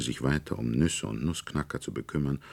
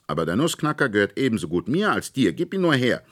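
insistent demand; 8 semitones higher, 6 dB louder, faster than usual. A narrator's reading. Fritz insists on the toy.

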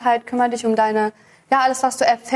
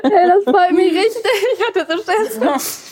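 laughing with relief; 6 semitones higher, 3 dB louder, slower than usual. Real, not acted. Relieved after cook praised.

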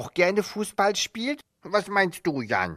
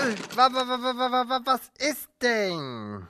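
startled stammer; 5 semitones higher than usual. Acted. Meerkat jolted out of sleep by his friend's shout, stammering. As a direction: stumble over the words, just woken.

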